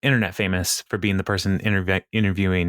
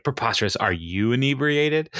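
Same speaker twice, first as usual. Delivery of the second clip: imitated drunk indignation; 3 semitones higher than usual. Tipsy candidate challenging her interviewer, mock drunk indignation. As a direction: draw out "inebriated" like someone feigning sobriety. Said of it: "a drunk hiccup burp".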